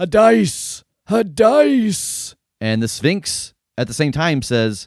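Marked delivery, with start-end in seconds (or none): 0.0-2.4 very high-pitched, very slow shrieking scream. Game master voicing a vision for the player Jake, Tiresias screaming. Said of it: "he screams at you".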